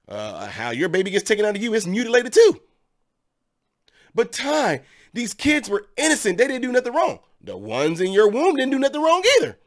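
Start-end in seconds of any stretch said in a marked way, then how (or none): 4.1-7.2 higher, whiny objector voice; mock critic. Vlogger imitating viewers, whiny protest. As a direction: play the pleading critic. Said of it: "you guys might say something like".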